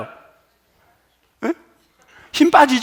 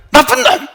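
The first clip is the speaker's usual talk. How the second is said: 나쁜 놈 spat out, louder and higher; forceful 나쁜 놈; 8 semitones higher, 4 dB louder than usual. Shown as a demonstration. Preacher showing the congregation how 나쁜 놈 tenses the mouth, forceful. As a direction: bite down on 나쁜 놈 with force. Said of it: "이렇게 돼".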